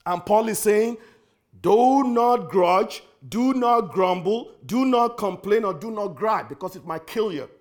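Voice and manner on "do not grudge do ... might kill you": drawn-out preaching, each do not weighed; slow, heavy preaching warning; slow emphatic command. Acted. Preacher quoting Paul's command.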